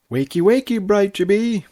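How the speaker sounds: high, loud wake-up call; bright loud morning wake-up; cheerful yell. Acted. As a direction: yank her out of bed with a sing-song shout. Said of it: "the fashionista yelled".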